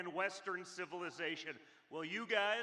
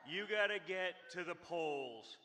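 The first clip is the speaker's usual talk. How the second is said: urging voters, punching the last word; rally speech. Acted. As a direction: push them to the polls.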